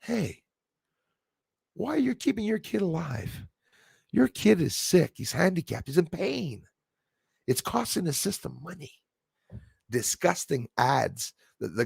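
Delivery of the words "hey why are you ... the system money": higher, softer mocking government ad voice; higher, softer parody of an ad. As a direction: sneer through the ad's words at a higher pitch. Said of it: "where they're talking about".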